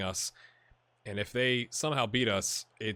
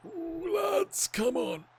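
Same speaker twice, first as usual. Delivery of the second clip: high-pitched pleading call to the lads; much higher, anxious urging of the players; sideline urging; much slower than usual. Pretend. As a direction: squeal it out from the touchline.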